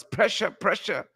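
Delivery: a hint of a character impression; Crab Man. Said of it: "in my best Crab Man voice".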